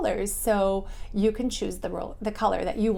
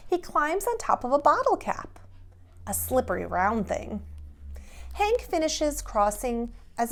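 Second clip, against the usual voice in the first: lively, bouncy picture-book narration; animated storytime read-aloud; reading to children; 2 semitones higher, 3 dB louder than usual. A narrator's reading. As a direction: read it like a bedtime story to little kids.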